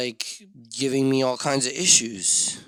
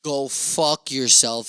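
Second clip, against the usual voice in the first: blunt insult; much slower than usual. Pretend. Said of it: "the very unpolitically correct".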